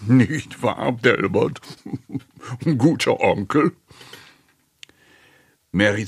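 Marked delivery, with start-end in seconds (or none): 0.1-3.7 mocking questions broken by chuckles; chuckling needling. A narrator's reading. Uncle Steve needles Delbert, chuckling. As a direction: chuckle between the little jabs.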